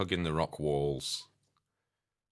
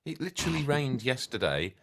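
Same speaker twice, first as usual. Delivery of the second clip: exasperated; 8 semitones higher, 5 dB louder than usual. Acted. Arguing over the rain.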